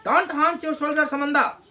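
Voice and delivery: mother scolding. Acted. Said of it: "तो माँ कहती है अपने बेटी को कि".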